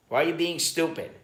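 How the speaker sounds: lightly voiced exasperated wife; imitating scolding wife. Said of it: "She'll call me stupid sometimes".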